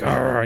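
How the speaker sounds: mock grumpy customer noise; imitated grumble. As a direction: grumble "arr" under your breath. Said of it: "he's kinda grumbling".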